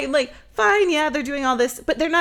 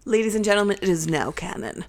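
lower, deliberate announcer voice; mock announcement; 4 semitones lower, faster than usual. Declaring the boyfriend theory canon, mock-official announcement.

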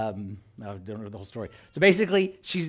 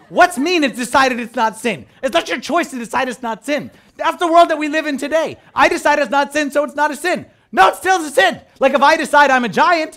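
indignant parent; 4 semitones higher, 4 dB louder than usual. Retold or imitated. Indignant lecture retold to daughter.

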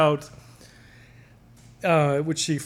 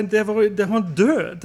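panicked mom; 6 semitones higher, 5 dB louder than usual. Retold or imitated. Retelling mom's panicked phone call.

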